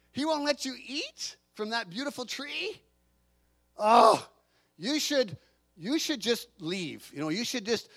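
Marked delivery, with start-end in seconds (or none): 3.8-7.9 tempting serpent. Retold or imitated. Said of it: "That's really what the snake was saying".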